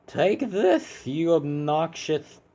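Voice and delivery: a lightly voiced, bouncy jab at the boss; cheery hero voice. Hero taunts the boss mid-fight, high and bouncy. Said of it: "now I just can't do it".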